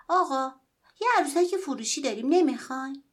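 high, loud street hawker's call; boy stops a man in the snow and calls out his sale; calling out to sell. Acted. Boy hawking doll to passerby.

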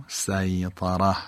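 سیطره said slowly, with a plain light S as in سین; slow careful pronunciation. Shown as a demonstration. Teacher spelling out the root word for students. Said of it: "اصل این کلمه هم با سینه".

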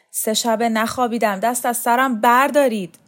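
loud, rising exasperated plea; protesting. A narrator's reading. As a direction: protest as you struggle against captors. Dragged man protests while struggling.

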